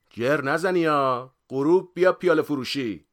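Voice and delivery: high, loud call; shouting after someone. A narrator's reading. Friend calls after man a few steps away, shouting. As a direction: yell it at someone walking away. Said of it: "پشت سرم داد زد".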